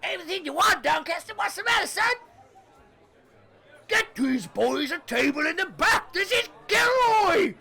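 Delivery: very high, loud gnome voice; shrill little gnome, eager to please; tiny gnome shouting orders, high and loud; squeaky gnome. Acted.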